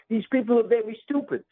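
high, punchy Trump impression; Donald Trump impression. Shown as a demonstration. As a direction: hammer it like Trump at a rally. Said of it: "And now Donald Trump".

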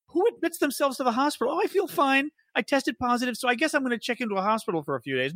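high-pitched sarcastic parody; mocking. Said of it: "we were mocking him at the time".

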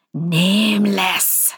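drawn-out, cold name; slow spirit voice. A narrator's reading. Spirit naming itself, slow and cold. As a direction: let the name hang slowly.

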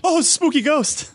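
high, slow hammed-up ghost voice; mock spooky voice. Host jokes about a ghost with hammed-up spooky wail. Joking about Ectoplasm character.

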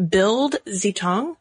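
Bild Zeitung said slowly in careful German, BILT tsai-toong; German pronunciation. Shown as a demonstration. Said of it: "I apologize if I do not pronounce this correctly".

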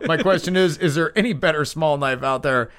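lifted, mock-sincere question; sarcastic. Host reads a listener's small knife question, sarcastically. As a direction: ask it with playful sarcasm. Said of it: "I hope you sense the sarcasm".

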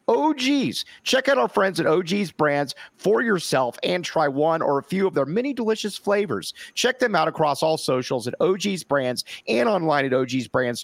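brisk sponsor read. Acted. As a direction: read the ad straight through. Reads sponsor ads.

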